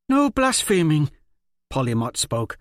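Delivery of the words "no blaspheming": high, loud forced firmness; feigned strength. Acted. Polly Mott scolds the quarreling kids with forced firmness. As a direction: try to sound strong. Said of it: "a feigned strength in her voice".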